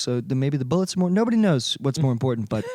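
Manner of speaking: a loose Trump impersonation, trailing down. Acted. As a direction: ramble like a lightly imitated Trump. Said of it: "your Trump is, like, sliding".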